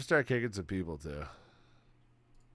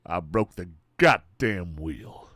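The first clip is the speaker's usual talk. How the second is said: exasperated; 4 semitones lower, 3 dB louder, slower than usual. Retold or imitated. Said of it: "like an exasperation?".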